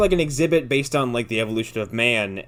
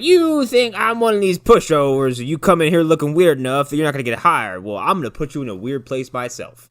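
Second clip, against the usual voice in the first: stern clerk; 6 dB louder than usual. Retold or imitated. Welfare clerk quoted.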